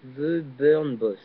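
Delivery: slow English name in a French accent; drawn-out French accent on English. Real, not acted. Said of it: "désolé pour mon accent anglais".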